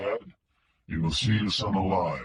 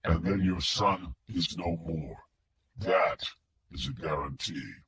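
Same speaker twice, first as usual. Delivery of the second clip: mechanical filtered voice; 4 semitones lower, 8 dB quieter than usual. A narrator's reading. Kidnapper on the phone to Wingo, mechanical filtered voice. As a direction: speak like a voice through a distortion filter. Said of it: "The filtered voice was mechanical".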